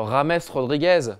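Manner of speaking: "Rames" said Spanish-style for James, drawn out slowly; mocked Spanish pronunciation. Host mocking the fad for saying Rames, exaggerated Spanish pronunciation. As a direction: say "Rames Rodriguez" slowly, with a Spanish initial sound. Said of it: "cette mode, là, de dire".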